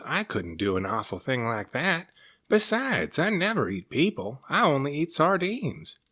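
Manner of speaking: high, squeaky, prim sea serpent; timid serpent protest. Acted. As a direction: insist you only eat sardines, a bit shocked.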